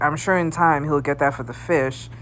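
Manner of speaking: lightly acted reasonable commenter; voice of reason. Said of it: "being the voice of reason".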